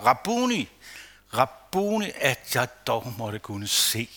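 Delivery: a slow, earnest plea; pleading. Acted. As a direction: blind man's humble request, slowed and softened. Bartimaeus begs to see.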